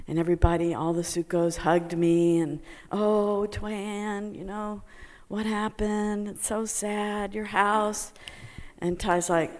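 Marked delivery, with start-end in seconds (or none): 2.9-8.1 sympathetic. Retold or imitated. Friends consoling her over the flooded house, sympathetic. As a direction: imitate fussing, sorrowful consolers. Community voiced as they hug her.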